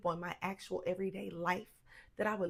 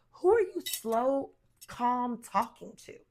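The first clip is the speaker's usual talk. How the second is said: much louder, huffy and exasperated; indignant outburst; 3 semitones higher, 9 dB louder, slower than usual. Retold or imitated. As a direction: blow up at the calm talker. Angry reaction to calm tone.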